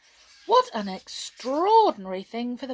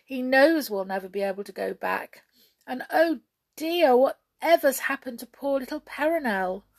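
tearful; 5 semitones higher, 6 dB louder than usual. Acted. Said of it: "wept Hop".

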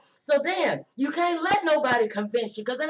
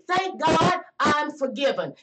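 slow declaration; slower than usual. Shown as a demonstration. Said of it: "Don't worry about Friday".

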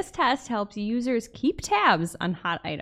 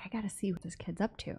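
quiet; 3 semitones lower, 15 dB quieter, faster than usual. Retold or imitated. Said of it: "I'm like".

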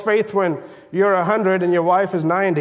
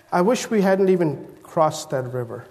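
discouraged; 4 semitones lower, 4 dB quieter than usual. Acted. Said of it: "He's so discouraged".

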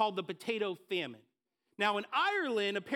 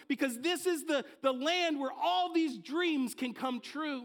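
excited; 4 semitones higher than usual. Retold or imitated. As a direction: play the hopeful dreamer about to see America. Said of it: "full of excitement".

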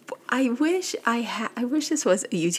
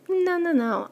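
emphatic refusal; 9 semitones higher, 3 dB louder than usual. Retold or imitated. Drunk brother refuses taxi.

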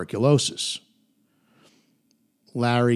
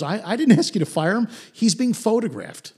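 mock alarmed, higher and quicker; panicked Larry; 9 semitones higher than usual. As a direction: blurt it out in a nervous rush. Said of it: "Larry is concerned".

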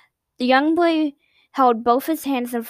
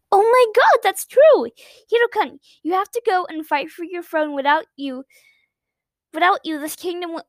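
much higher and louder, thrilled; excited realization; 7 semitones higher, 3 dB louder than usual. Acted. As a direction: burst out with hope. Girl excitedly realizes hope.

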